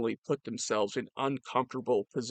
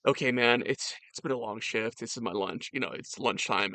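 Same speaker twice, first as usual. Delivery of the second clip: lightly voiced, lower Northern Virginia everyman; Northern Virginia accent; 3 semitones lower than usual. Chef off-act to officers at lunch, casual Northern Virginia accent. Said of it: "Northern Virginia accent".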